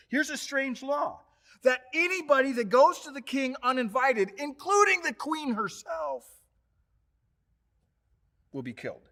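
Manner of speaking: lightly voiced Esther. Esther explaining the deadly law to Mordecai, lightly voiced. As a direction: voice the queen lightly, wide-eyed.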